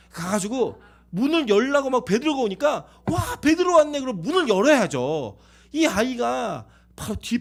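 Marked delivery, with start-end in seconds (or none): 3.1-4.0 high, loud burst of delighted surprise; excited discovery. Acted. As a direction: exclaim it louder and much higher. Rhoda finds Peter at the door.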